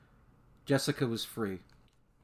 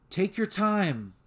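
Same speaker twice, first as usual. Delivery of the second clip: calm; 6 semitones higher, slower than usual. A narrator's reading. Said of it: "defying every instinct".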